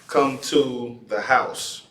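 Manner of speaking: "Come to the house," spoken slowly; slow example. Shown as a demonstration. Teacher giving an example sentence slowly to the class. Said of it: "So if I was gonna say".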